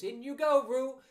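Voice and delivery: loud, high call. Acted. Rabbit gives Roo the signal, in a loud voice. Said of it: "said in a loud voice".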